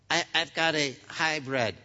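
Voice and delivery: hesitant, stammering admission; a lightly voiced sheepish guy admitting his car is a hybrid; sheepish hybrid owner. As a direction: mumble it like you're a little embarrassed. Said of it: "you don't think, "I got a hybrid".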